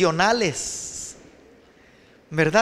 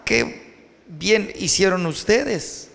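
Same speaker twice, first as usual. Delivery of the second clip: slow bitter remark; much slower than usual. Acted. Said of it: "y le dice Samson".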